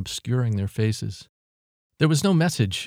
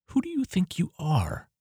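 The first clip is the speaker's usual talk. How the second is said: hostile; 8 semitones higher, 4 dB quieter than usual. A narrator's reading.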